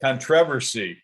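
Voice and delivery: controversy stressed on TROV, con-TROV-ersy; controversy said with the second syllable stressed. Shown as a demonstration. Host checking how golf coach says it, stressed second syllable. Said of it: "Is that how you say it?".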